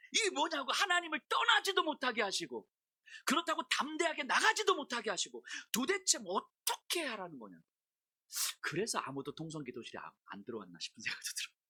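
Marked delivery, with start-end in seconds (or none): 0.1-7.6 high, loud protest easing off at the end; retold tantrum. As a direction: keep whining and demanding, as if re-enacted. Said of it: "뭐라고 땡깡을 부렸냐면".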